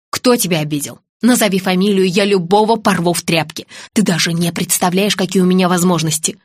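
lightly voiced low tough man; low, firm, ready to avenge; protective threat. Friend vowing to punish her offender, threatening.

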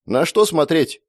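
puzzled. A narrator's reading. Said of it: "недоумённо обернулся".

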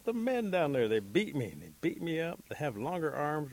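aggrieved Rabbit. A narrator's reading. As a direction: protest about the beating you took. Rabbit explains his beating.

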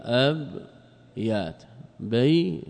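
أب then يات pulled apart, very slow, syllable by syllable; spelled out by syllable. Shown as a demonstration. Grammar teacher spelling out the plural for students, syllable by syllable. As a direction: break the word into its beats slowly. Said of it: "قال أب يا سكنها".

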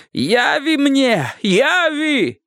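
very high, slow desperate bellow; roaring tyrant king. A narrator's reading. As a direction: stretch each cry, pleading command. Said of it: "требовал он громогласно".

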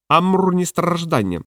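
slow, lightly voiced parrot; a hint of a slow parrot. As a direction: pronounce it like a parrot. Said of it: "сказав папуга".

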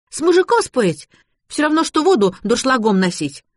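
high-pitched quoted wisdom; girl quoting mother. A narrator's reading. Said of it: "пробормотала Лота, явно цитируя правила матери".

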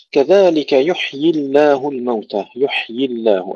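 يحيي with the ya after the ha sounded distinctly; careful recitation, every letter of يحيي sounded; clear ya after ha. Shown as a demonstration. Teacher showing pupils the ya that follows ha, clearly articulated. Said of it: "الياء التي بعد الحاء".

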